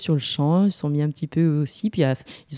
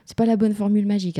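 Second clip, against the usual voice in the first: mock dismay; 5 semitones higher than usual. Acts out a failed spell.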